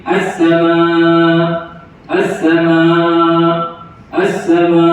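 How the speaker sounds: "as-sama" chanted long, its final hamzah left weak. Shown as a demonstration. Teacher shows the error at a pause, "as-sama" ending weakly. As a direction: hold the last vowel of "as-sama" and let the stop vanish. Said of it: "membaca dengan sebutan yang lemah ketika waqaf".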